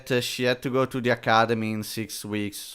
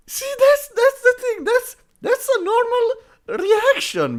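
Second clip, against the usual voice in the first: laughing insistence; 4 dB louder than usual. Real, not acted. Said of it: "laughing emphatic point".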